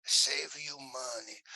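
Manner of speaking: a lightly voiced old Italian grandfather, slow on the end; child's take on a broken-English Italian grandpa; hint of an old Italian man, slow on the last words; Italian grandpa impression. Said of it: "Do an impression of grandpa".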